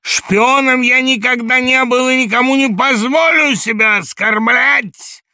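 high, loud, slow, «оскорблять» drawn out; rattling shout, stress on оскорблять. A narrator's reading. Samoylenko shouting, quavering, stressing «оскорблять». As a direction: shout it, leaning hard on «оскорблять». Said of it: "крикнул он дребезжащим голосом, делая ударение на последнем слове".

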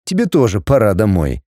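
low man's voice with a slight smirk; smirking male voice. Acted. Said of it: "сказал громче, с лёгкой усмешкой".

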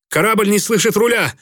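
alarmed helmsman calling out; worried. A narrator's reading. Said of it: "обеспокоенно сообщил штурвальный".

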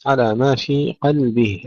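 قلبه with a thin, light ل; light lam. Shown as a demonstration. Teacher modelling for students, light lam in قلبه. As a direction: slowly keep the ل in قلبه light. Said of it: "هنا نرقق اللام".

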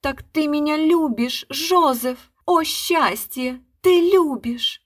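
high, loud, slowed ecstatic wail; melodramatic joy. A narrator's reading. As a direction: overplay the happy embrace. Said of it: "вопила".

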